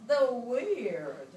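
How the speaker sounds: drawn-out, playful character sketch; playful emphasis. Acted. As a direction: lean into the oddness of the word. Acting out list of townspeople.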